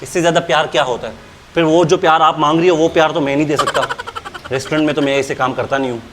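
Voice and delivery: mildly softened politeness. Pretend. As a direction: coax her gently, half teasing. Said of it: "अभी तो प्यार से बात कर रहा हूँ". (हल्की नरमी से, आधा मज़ाक़)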